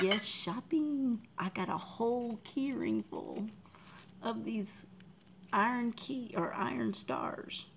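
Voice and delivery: excited. Real, not acted. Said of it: "I'm so excited".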